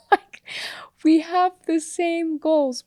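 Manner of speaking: slow whispered aside. Real, not acted. Wife whispers the point to her husband.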